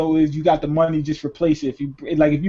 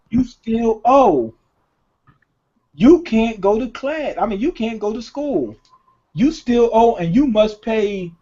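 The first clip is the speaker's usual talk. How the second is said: slow, higher, mocking official tone; mock school clerk; 3 semitones higher, slower than usual. A student mocking the school office telling him he owes, slow and higher. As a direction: drag it out like a smug clerk.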